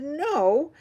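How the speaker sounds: stubborn dad raising his voice; arguing refusal. A narrator's reading. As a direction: refuse firmly in a rising argument. Father arguing, escalating.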